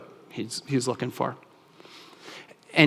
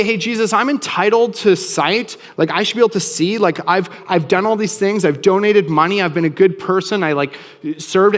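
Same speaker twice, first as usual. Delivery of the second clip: higher, pushy, self-righteous complaining; mock entitled whine; 4 semitones higher than usual. Beggar demanding sight from Jesus, mock entitled whine. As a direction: play a beggar who thinks he's owed sight.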